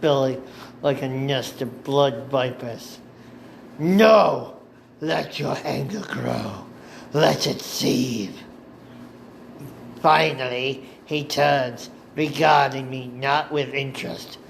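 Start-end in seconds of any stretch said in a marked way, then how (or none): 3.8-8.3 stern master urging rage; commanding hiss. Acted. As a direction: push her to let the anger grow. Dooku urging anger in flashback.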